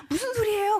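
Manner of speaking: very high, loud disbelief; incredulous outburst. Retold or imitated. Mother told that God healed her baby, shrieking disbelief. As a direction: exclaim in utter bewilderment.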